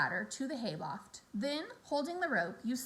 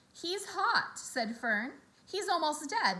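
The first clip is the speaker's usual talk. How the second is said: put-on girl voice; 5 semitones higher, slower than usual. Fern pleads for frog.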